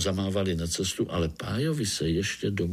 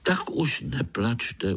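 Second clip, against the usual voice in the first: slow, gentle comfort; 3 semitones higher, slower than usual. Acted. Pája comforts the weeping tree frog, gently soothing. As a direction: soothe a crying friend. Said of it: "utěšoval ji".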